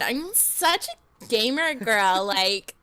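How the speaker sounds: put-on slow, bubbly gamer girl. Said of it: "I'm gonna do my gamer girl voice".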